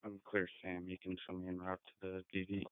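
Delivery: police radio. Real, not acted. Unit reporting over police radio.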